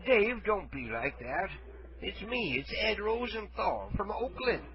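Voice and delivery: soft, lightly voiced old man; a hint of a feeble old caller; frail shaky old whisper. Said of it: "Well, I'm old".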